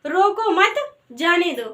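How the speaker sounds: "रोको मत" as one group, short pause, then falling "जाने दो"; comma pause. Shown as a demonstration. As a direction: break after "मत". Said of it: "और हमने बोला".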